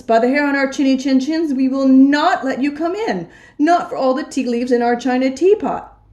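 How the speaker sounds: high, defiant little wolves. Acted. Little wolves defying the big bad pig, high and firm. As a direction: chant the refusal like stubborn little wolves.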